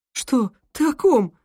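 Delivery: high, confused questions; ask, baffled; puzzled. Acted. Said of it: "озадаченно спросила Лу".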